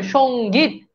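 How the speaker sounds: সঙ্গীত drawn out in two parts, "shong-geet"; spelling demonstration. Shown as a demonstration. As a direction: sound out সঙ্গীত syllable by syllable, nasal ng held. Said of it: "তার মানে কি হবে?".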